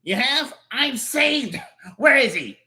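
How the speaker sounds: excited. Acted. Relieved at finding lead.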